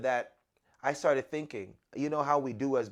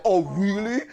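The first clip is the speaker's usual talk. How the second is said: sarcastic; 6 semitones higher, 8 dB louder than usual. Retold or imitated. Annoyed at sudden exit.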